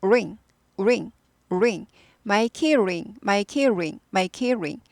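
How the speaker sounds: "ring" with lips rounded first; 우 입모양 ring. Shown as a demonstration. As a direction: start "ring" with an "우" lip shape. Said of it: "입 모양을 우부터 시작하면 됩니다".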